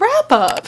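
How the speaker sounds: mock surprised lilt, loud. Reading wrap-up video intro, imitating own habit: mock-surprised 'wrap up'. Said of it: "like I'm surprised".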